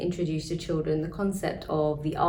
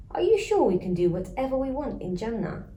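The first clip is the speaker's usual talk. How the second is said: cheeky; 5 semitones higher than usual. Acted. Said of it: "With a cheeky grin".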